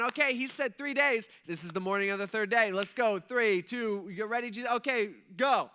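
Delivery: imagine hyping up a countdown; excited countdown. Pretend.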